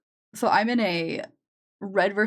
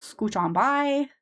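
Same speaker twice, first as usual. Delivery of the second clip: Minnesotan accent; 4 semitones higher, slower than usual. Shown as a demonstration. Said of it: "vocal warm-up for doing those lines".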